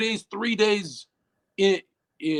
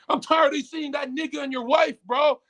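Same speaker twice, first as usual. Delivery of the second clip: mock taunt; 7 semitones higher than usual. Quoting a hostile comment.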